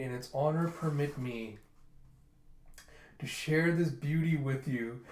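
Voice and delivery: wax poetic like a showy flirt; mock flirtatious. Charmer celebrating victory, mildly theatrical flirting. Flirt makes flowery speech to women.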